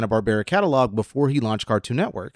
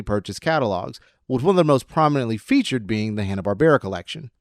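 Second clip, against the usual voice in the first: radio voice. Real, not acted. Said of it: "I've turned to my radio voice".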